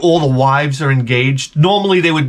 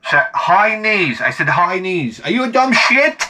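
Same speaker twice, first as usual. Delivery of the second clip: mock coach yell; 6 semitones higher than usual. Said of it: "I'd be yelling at the goddamn kids".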